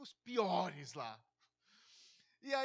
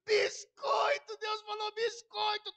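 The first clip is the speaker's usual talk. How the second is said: high, slow, drawn-out jeering shout; mocking crowd jeer; 10 semitones higher, 9 dB louder, much slower than usual. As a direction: stretch it out to ridicule him. Dando risada na cara dele.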